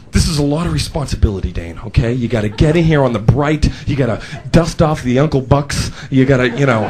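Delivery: low-key, earnest manager giving instructions; understated solemn boss voice; serious boss. Retold or imitated. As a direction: mildly imitate a boss being super serious. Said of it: "My boss was really serious".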